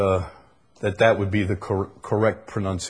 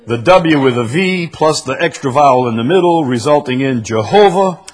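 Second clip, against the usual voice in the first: louder, emphatic read-aloud; 5 semitones higher, 7 dB louder than usual. Acted. Preacher reading how Y became J, emphatic read-aloud. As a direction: project each step of the explanation.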